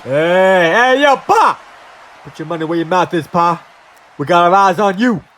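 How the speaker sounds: a swaggering hired muscle talking down a rival; Lucha Mafia thug. Acted. Lucha Mafia enforcer warning Mister Incredible, tough-guy threat.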